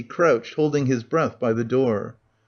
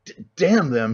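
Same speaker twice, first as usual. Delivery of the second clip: thick bawl. Acted. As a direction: yell it at the locked door, fed up. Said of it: "he bawled in a thick voice".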